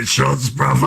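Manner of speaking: high excited call for shots; hyped shots call. Retold or imitated. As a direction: sell the shots like a party bro. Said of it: "and he's like".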